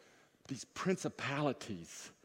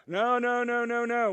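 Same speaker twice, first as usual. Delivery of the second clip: loud and higher, cutting someone off; emphatic no; 7 semitones higher, 6 dB louder than usual. Real, not acted. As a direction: shut down the blame game, loud. Preacher cutting off an argument.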